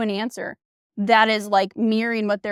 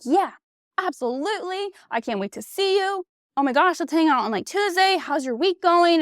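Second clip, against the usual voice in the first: higher, bright mock excitement; imitating an eager guy; 6 semitones higher than usual. Guy replying to her text, mock ecstatic and higher. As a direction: play him thrilled to hear from her. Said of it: "he was, like, ecstatic and was like".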